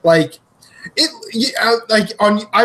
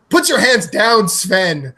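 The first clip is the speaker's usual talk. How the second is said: commercial lady; 4 semitones higher, slower than usual. Retold or imitated. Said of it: "another one where she's like".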